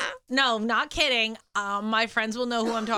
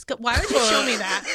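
disgusted laughter; 5 dB louder than usual. Real, not acted. Reacting to gross queef post.

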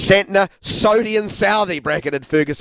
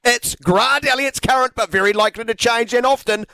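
game show announcer; 5 semitones higher than usual. Pretend. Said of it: "another exciting edition of everyone's favourite cricketing game".

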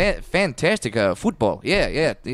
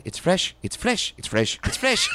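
building excitement; 5 semitones higher, slower than usual. Shown as a demonstration. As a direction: build from eager to shouting. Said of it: "It's like, okay".

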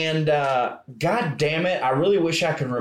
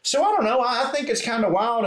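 imitated pub guy; 8 semitones higher than usual. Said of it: "He goes".

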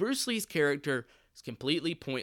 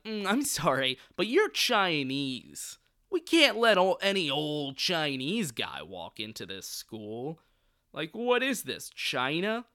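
mock-sorry rejection with exaggerated swoops; mock condescension; slower than usual. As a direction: imitate a dismissive official, stretching words out. Acting out snobbish board rejecting him.

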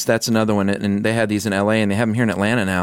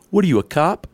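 mocking retort; 7 semitones higher than usual. Angry trucker retorting.

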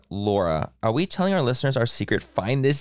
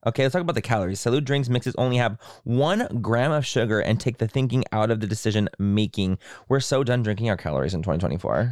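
chatty sponsor pitch; ad read. Acted. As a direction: talk up the product to listeners.

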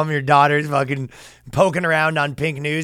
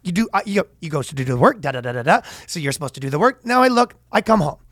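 Patrick McDavid impression; 4 semitones higher, faster than usual. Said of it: "My Patrick McDavid is, uh, everything's an anecdote".

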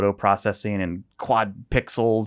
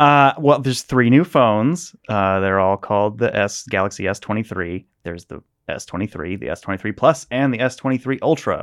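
newscaster voice; 4 dB louder than usual. Pretend. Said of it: "Put on my best newscaster voice".

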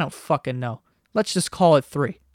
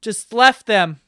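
higher, slower mimicking voice; put-on higher voice, louder toward the end; mock assuming gossip; 6 semitones higher, 5 dB louder, slower than usual. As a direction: imitate people jumping to conclusions, drawn out. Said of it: "people have been ... just making assumptions".

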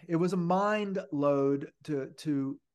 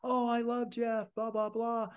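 Playmate's voice; 7 semitones higher than usual. Retold or imitated. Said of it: "And she goes".

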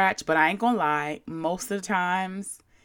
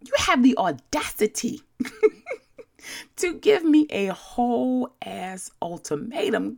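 laughing disbelief; 6 semitones higher than usual. Real, not acted. Outraged at the email's ultimatum.

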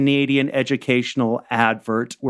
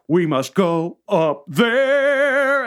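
slow solemn command; 4 semitones higher, much slower than usual. Pretend. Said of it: "I'm like".

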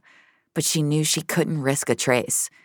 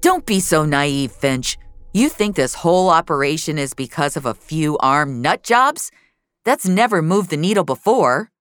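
scornful lecture; 4 dB louder than usual. Acted. Frank lectures Finch harshly.

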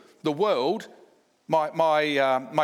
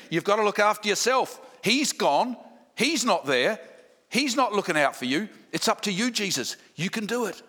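tempting devil. Acted. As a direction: coax and needle like a tempter. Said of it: "he's trying to get Jesus".

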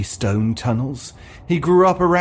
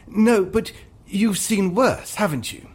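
high, slow, pointed prompt; prompting actor; 9 semitones higher than usual. Acted. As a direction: lean hard on NO. Actor prompting the catchphrase again.

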